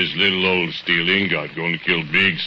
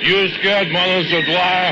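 much higher replayed voice of his own; hearing himself; 14 semitones higher than usual. Bogdan reliving his taunt at the ladle, much higher. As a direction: echo your own words from memory. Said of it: "You hear yourself say".

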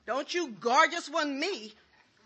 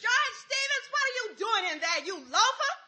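calling out; 4 semitones higher than usual. Acted. Wife calls husband from kitchen.

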